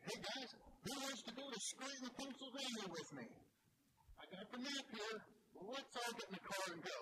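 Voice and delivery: excited. Retold or imitated. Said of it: "get up there all excited".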